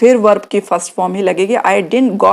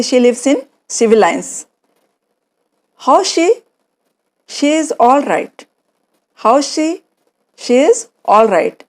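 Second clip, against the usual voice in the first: acted slow dialogue; 3 semitones higher, much slower than usual. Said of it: "बोल रहा है".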